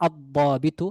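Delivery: "আদ-দাবিতু" slow, with doubled heavy d; lam merged into dad. Shown as a demonstration. Teacher naming the definite officer, "আদ-দাবিতু" with lam silent. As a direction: take "আদ-দাবিতু" slowly, holding the d. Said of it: "দাদের সাথে লামটি মিশে যাবে".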